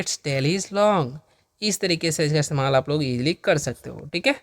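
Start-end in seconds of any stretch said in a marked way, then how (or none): 0.0-1.2 धीमा स्पष्ट उच्चारण. Shown as a demonstration. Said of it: "तो बोलेंगे".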